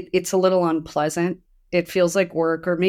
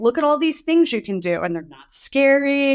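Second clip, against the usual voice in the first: playful dragon voice; 7 semitones higher than usual. Retold or imitated.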